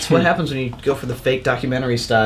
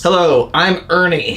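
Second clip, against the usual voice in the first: nasally Ernie voice; 2 semitones higher, slower than usual. Retold or imitated. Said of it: "you just have to have a nasally voice".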